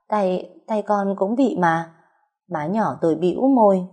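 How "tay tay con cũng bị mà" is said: slow, stammering protest, tripping on Tay. Acted. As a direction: stumble over the first word, unsure and caught out. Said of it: "Thúy Liễu lắp bắp". (lắp bắp chậm rãi)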